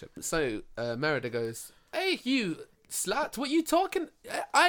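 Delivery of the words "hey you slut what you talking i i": shrill-high, loud, slow mock Scottish shout; a hammed-up furious Scottish yell; Scottish accent. Merida rounds on Mulan in a loud hammed-up Scottish accent. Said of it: "I've worked on that accent for a while".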